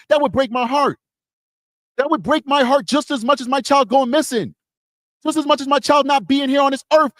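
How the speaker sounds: heartfelt, pitched high throughout; impassioned. Real, not acted. A father imagining his own child feeling unloved, impassioned. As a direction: pour it out, real and insistent.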